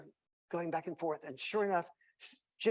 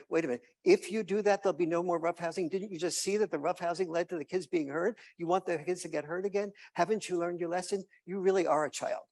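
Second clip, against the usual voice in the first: louder scolding mom; 3 semitones higher, 6 dB louder than usual. Retold or imitated. Mom scolding dad over the rule, louder. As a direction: tell him off like a child. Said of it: "Mom's going".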